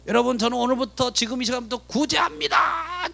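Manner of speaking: mock a showy announcement to a crowd; public almsgiving announcement. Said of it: "종을 쳐가면서 사람들 다 모이게".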